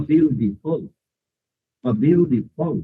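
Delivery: বিউটিফুল said as "byu-di-ful"; American-accented বিউটিফুল with a "di" in the middle. Shown as a demonstration. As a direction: turn the টি of বিউটিফুল into a D, American style. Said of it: "US অ্যাকসেন্টে ডি হয়ে গেছে".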